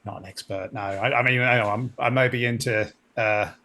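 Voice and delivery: wobbly Cockney, drifting toward Australian; attempted Cockney accent. Crewman owns up to an ensign about the spiders, attempted Cockney accent. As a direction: have a rough go at Cockney. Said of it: "can you do the Cockney accent".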